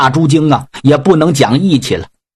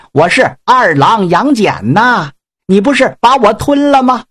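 higher, taunting voice calling down to the pig; mocking god warrior; 5 semitones higher than usual. Yang Jian taunts the pig demon from inside, higher mocking voice. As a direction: play the cocky god talking from inside the belly.

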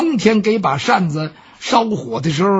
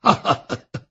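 laugh; 5 semitones lower than usual. Acted. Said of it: "包公一听乐了".

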